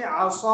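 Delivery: असा with a drawn-out, heavy 'saw'; thick alif. Shown as a demonstration. Teacher giving a thick-alif example, असा with long heavy 'aw'. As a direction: round and hold the last vowel of असा. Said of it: "मोटा पढ़ेंगे".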